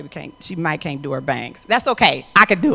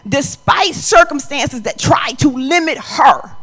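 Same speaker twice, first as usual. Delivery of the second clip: high, loud, rising sermon cry; full-throated church preaching; preaching at full force; 10 semitones higher, 6 dB louder than usual. Acted. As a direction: preach it out to the congregation.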